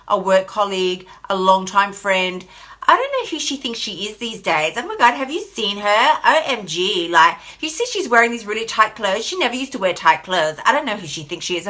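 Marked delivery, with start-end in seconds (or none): 2.8-11.7 gossipy reality-TV accent, lightly put on; catty gossip in a half-hearted Kardashian-style accent; mock Kardashian accent. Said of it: "I don't know what I'm doing with that accent".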